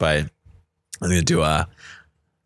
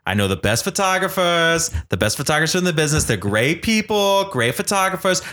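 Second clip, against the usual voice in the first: Donald Trump impression. Host praising friend's photos in a light Trump voice. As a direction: brag like Trump in a mild put-on voice. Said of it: "It's a bad impression".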